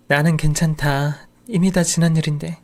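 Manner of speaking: put-on slow, gentle old mother resigned; lightly voiced old woman letting it go; elderly mother. Mother-in-law voiced in story.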